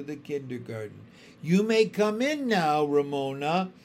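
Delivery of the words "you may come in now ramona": pleasant. Acted. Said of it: "said Miss Binny pleasantly".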